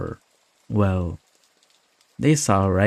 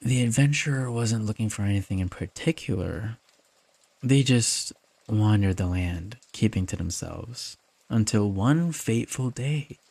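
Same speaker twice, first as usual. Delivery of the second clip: bedtime story narration. Acted. Telling a partner a story to fall asleep, gentle narration. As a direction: read it like a bedtime tale.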